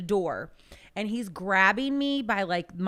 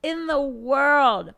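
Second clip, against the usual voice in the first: much higher, louder amused disbelief; laughing disbelief; 7 semitones higher, 6 dB louder than usual. Real, not acted. Teacher marvelling at the kid, laughing. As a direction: laugh in wonder.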